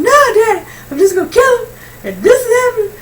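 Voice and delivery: half-laughing, half-sobbing rant about killing him; hysterical laughing cry. Retold or imitated. On the phone to her dad, laughing and sobbing hysterically. Retelling her furious outburst.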